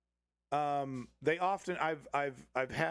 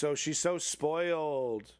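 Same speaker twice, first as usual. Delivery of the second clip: mock excuse; 2 semitones higher, slower than usual. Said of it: "he makes some stupid excuse".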